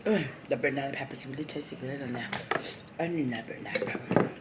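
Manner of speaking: chewing while talking; words round a bite of food; mouth full. Real, not acted. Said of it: "my mouth full".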